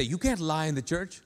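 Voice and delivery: understated imitation of a churchgoer's caution; quoted churchgoer rule. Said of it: "Like, people say".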